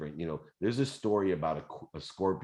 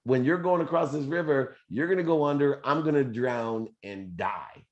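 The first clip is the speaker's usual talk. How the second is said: high, raised scorpion voice, laughing through the no; scorpion pleading; 8 semitones higher, 5 dB louder than usual. Acted. Scorpion talks the frog into the ride, high and insistent. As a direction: pitch up and argue it's stupid to sting. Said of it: "the scorpion said".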